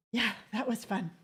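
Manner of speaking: dry sarcastic aside. Real, not acted. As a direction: say it with dry irony. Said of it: "I'm saying that very much like a sarcastic".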